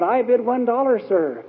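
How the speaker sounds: put-on child's hopeful call at the auction; mild cried-out bid. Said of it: "he, uh, cried out".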